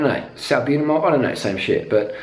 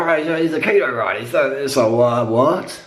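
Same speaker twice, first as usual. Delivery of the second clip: lightly put-on puzzled voice; a hint of mock bewilderment; mocking baffled onlookers. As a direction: imitate confused fans, stumbling to a halt. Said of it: "And they'd be like".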